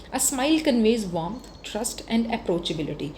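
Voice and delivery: very slow, each word set apart; slow dictation. Shown as a demonstration. Teacher reading key words aloud for students to write down, very slow. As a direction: read it out slowly for the notebook. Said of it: "ये आपको words याद कर लेने हैं".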